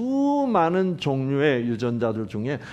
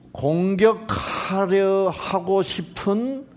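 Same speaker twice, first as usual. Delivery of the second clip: ordinary delivery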